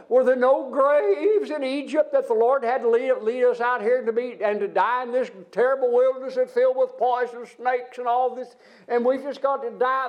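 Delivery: whining Israelites. Acted. Preacher voicing the Israelites' complaint, mild whine. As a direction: whine it like ungrateful grumblers.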